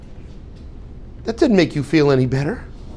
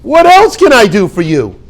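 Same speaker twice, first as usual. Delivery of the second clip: much higher and louder, slow and effusive; gushing eager helper; 11 semitones higher, 5 dB louder, slower than usual. Shown as a demonstration. Teacher models the right answer to thanks, much higher and gushing. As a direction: overflow with delight at being asked.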